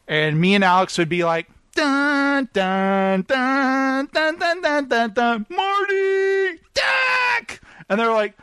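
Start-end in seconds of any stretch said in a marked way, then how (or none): 1.7-7.6 high sung-out mock movie fanfare and cry; film-parody teasing. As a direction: hum a dramatic theme, then squeal the names. Mimicking Back to the Future tease.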